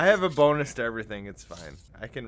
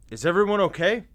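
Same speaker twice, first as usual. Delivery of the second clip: firefighter voice; 6 semitones higher than usual. Pretend. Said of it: "Like I'm a firefighter".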